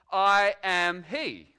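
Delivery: slow, commanding answer; solemn declaration. Acted. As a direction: let I am he land slowly with weight. Jesus answers the arresting crowd.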